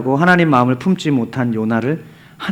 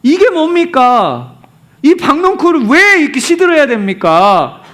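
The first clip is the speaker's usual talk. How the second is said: high, acted angry protest; exasperated, hammed-up demand for answers; Jonah; 10 semitones higher, 4 dB louder than usual. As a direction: complain bitterly to God, voice raised in pitch. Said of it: "막 짜증내고 화를 내요".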